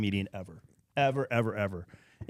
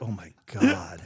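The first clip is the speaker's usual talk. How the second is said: laughing disbelief; 3 semitones lower, slower than usual. Retold or imitated. Reacting inside the story.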